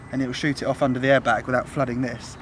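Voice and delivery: breathless after digging; talking while out of breath. Real, not acted. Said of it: "I'm so out of breath".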